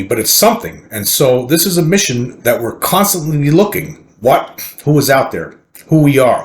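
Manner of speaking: emphatic read-out, quotes lifted over the narration; article read-aloud. Acted. Reads a news article aloud.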